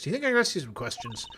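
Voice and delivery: corrected character read, brisk; right character voice. Acted. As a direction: fix it and say it in the right voice. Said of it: "wrong voice".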